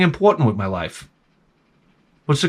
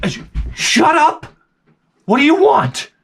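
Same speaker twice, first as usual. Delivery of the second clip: snapping dad; 10 semitones higher than usual. Retold or imitated. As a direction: cut the kid off sharply. Father snapping at son.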